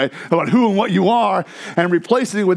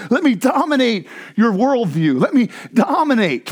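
building insistence; 2 semitones higher than usual. Retold or imitated. Preacher voicing God's call to the listeners, building insistence. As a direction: build each command into a rousing preacher's refrain.

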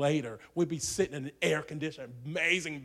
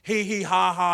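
a loud, higher imitated crowd laugh; mock laughter; 4 semitones higher, 7 dB louder than usual. Preacher imitating college kids laughing, loud mock laughter. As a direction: mimic the students laughing. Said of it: "Three thousand college kids laughed".

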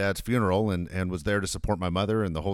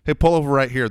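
imitating dad's demand; 3 semitones higher, 6 dB louder than usual. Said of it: "my dad's the guy that will tell you".

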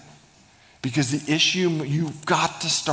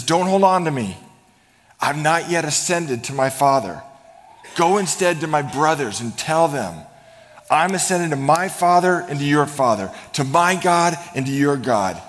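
raised, louder, preaching voice of Jesus; Jesus speaking; 3 semitones higher, 5 dB louder than usual. Acted. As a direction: speak as Jesus sending her with a message. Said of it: "Jesus says".

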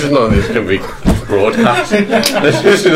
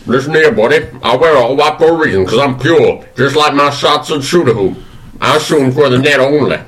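lightly voiced Southern gentleman; Colonel Sanders. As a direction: try on a folksy Kentucky colonel. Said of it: "who is Colonel Sanders".

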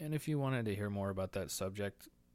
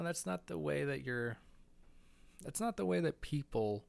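higher, louder incredulous jab; mock disbelief; 6 semitones higher, 3 dB louder than usual. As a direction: keep mocking in disbelief. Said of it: "and I went on to say".

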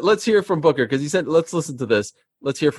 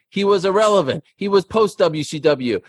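wrestling promo; 3 semitones higher than usual. Acted. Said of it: "cut a promo".

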